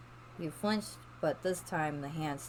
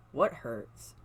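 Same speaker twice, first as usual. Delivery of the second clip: raised panicked question; 4 dB louder than usual. Acted. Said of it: "His voice raised and panic".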